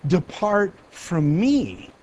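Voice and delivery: "Depart from me" drawn out very slowly, "me" stretched long; slow solemn sentence. Shown as a demonstration. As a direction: pronounce the verdict slowly and gravely.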